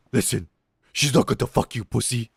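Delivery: taunting classmate. Retold or imitated. Classmate goading the captain, lightly imitated taunt. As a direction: imitate a schoolboy's insult.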